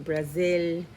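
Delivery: slipping into an accent on Brazil; unexpected accent. Real, not acted. Card reader listing what comes through, accent slipping in. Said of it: "I don't know where that accent".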